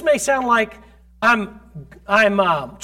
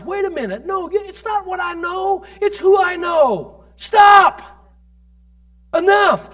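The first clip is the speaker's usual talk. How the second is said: rising declaration to shout; 8 semitones higher, 4 dB louder, slower than usual. Pretend. Believer rebuking demons, building to a loud shout. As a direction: command the demons to stop. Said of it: "If you'll just realize".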